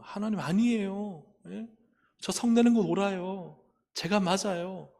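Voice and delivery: retold defiant objection to God; inner protest. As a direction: push back insistently, as if refusing correction. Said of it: "제가 마음으로 막 튕겨내고 싶죠".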